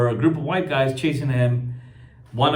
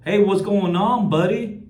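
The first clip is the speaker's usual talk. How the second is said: higher, slower, pushy mock greeting; a hammed-up hostile "buddy" with a rising end; mock aggressive greeting; 6 semitones higher than usual. Imitating the neighbor's aggressive hello to a passerby. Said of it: "in an aggressive, uh, manner".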